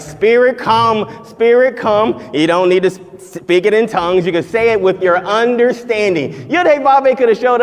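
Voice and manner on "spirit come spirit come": mock fervent calling. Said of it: "You don't have to be like".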